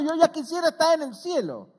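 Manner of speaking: Paul quoted. Retold or imitated. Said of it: "decía Pablo".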